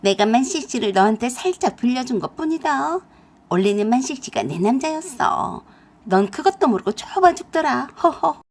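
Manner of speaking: a light scoffing laugh at the end; mocking. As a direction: gloat while clinging to the boyfriend. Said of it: "아주 우습다는 듯이 ... 그러더라고요".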